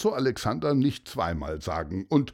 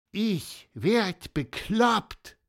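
high amazed peep, slow at first; squeaky cartoon voice; 9 semitones higher, much slower than usual. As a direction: chirp out in disbelief. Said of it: "piepste Gonzo Alexander".

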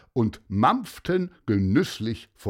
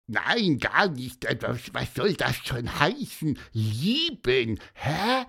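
squeaky cartoon voice. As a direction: chirp it out like a little finch. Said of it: "piepste Gonzo".

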